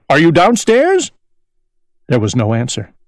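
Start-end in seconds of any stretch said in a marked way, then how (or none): 0.1-1.1 crying out. A narrator's reading. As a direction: call it down the stairs. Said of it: "he cried".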